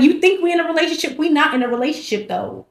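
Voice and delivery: fast, high, brushing him off; mock dismissive player. Teasing a dude who thinks they're dating, fast and dismissive. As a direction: toss him off like he means nothing. Mocking a guy she's playing.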